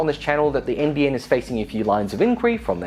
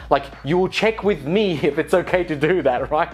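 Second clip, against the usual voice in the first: mock possessive minister. Minister guarding his dear NBN, mock clingy. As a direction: demand they check with you first. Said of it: "Fletcher is basically saying".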